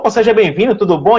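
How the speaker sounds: imitating a welcoming waiter; mock cheerful waiter. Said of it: "E outro faz".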